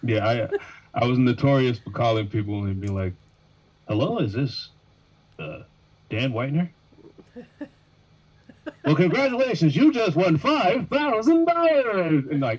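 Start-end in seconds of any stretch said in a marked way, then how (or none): 3.9-12.2 very high, swooping, sing-song put-on phone voice. Asked to demonstrate, retelling how they used to call people, in a put-on phone voice. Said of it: "the quote unquote phone voice".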